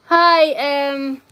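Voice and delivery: high, lifted hello; excited hi. Real, not acted. Streamer greets a new viewer, high and bright. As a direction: sing out a friendly hi.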